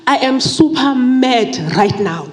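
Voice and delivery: mock angry prayer. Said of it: "I got so angry and I told God".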